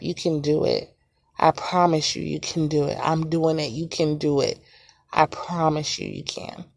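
quiet, voice fading to a breath; emotional. Real, not acted. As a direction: near tears, pushing the words out softly. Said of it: "Got a little bit emotional".

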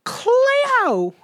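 practising a hammed-up Australian accent; attempted Australian accent. Shown as a demonstration. Practising for a dream job in Australia, attempted Australian accent. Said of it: "work on my Australian accent".

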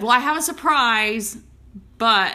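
high, loud, excited announcement; imitated excitement. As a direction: mimic a friend bursting with a surprise. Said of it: "and she's all excited".

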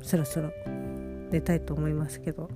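sleepy, lying down talking. Real, not acted. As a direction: talk lying in bed, drowsy. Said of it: "横になりながら喋っております".

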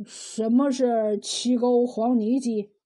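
slow, puzzled man's question; 一怔发问. Acted. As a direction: ask slowly, taken aback. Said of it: "庞雄一怔". (愣了一下，慢慢地问)

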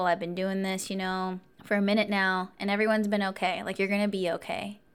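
easy, steady retold reassurance; calming reassurance. Chill guard calming a scared stranger, retold reassurance. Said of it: "really helped calm my nerves".

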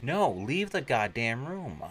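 slow, high, swooping mock spooky voice; eerie whispering voice. Unseen killer warns off the boyfriend, mock eerie whispering voice. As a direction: imitate an eerie voice, drawing it out. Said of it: "he hears a whispering sound saying".

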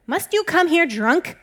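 loud, slow, high accusation; stern demand. A narrator's reading. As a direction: demand it slowly, leaning on each word. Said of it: "he demanded".

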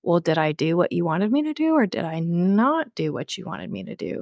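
voicing a puzzled dog, questioning lilt; confused dog. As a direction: ask as a bewildered dog would. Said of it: "the dog was confused".

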